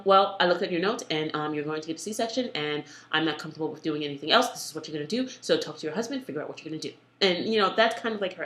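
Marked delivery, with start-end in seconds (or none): 0.1-6.9 mildly robotic imitation of a surgeon; imitating a detached doctor reading out a decision. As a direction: recite it matter-of-factly, a touch mechanical. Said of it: "she's like, "Robot, robotic".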